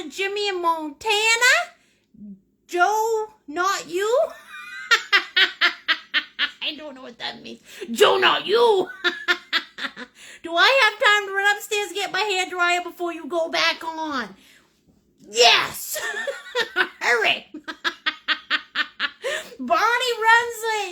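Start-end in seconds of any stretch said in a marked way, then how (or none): 2.7-10.4 high, loud, real laughter breaking in; cracking up while reading out a comment; can't stop laughing. Real, not acted. Streamer reading viewers' comments, can't stop laughing. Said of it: "I can't stop laughing". 15.3-20.9 high, loud words between bursts of laughter; really cracking up, barely getting words out; can't stop laughing. Real, not acted. Streamer answering a viewer's hair dryer question, laughing helplessly. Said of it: "I can't stop laughing".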